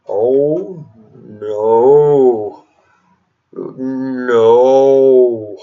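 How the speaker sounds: low, put-on voice of the other side; mock EU reply. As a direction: scoff back in a mocking other voice. Mocking the EU's reaction.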